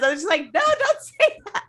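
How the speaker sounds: high-pitched laughing mock plea; Amy imitated, high and giggly; laughing high imitation. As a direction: squeal no through laughter. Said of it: "Amy says".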